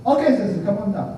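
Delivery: high, easy call to come down; a light imitation of the Samoan usher; calling the sensei. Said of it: "Samoan guy calling the minister".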